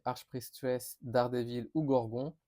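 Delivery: clumsy English accent on Archpriestess, Daredevil and Gorgon; French speaker trying to say the names the English way; self-mocking English accent on the villain names; bad English accent. Real, not acted. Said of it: "vous avez vu mon accent anglais de merde".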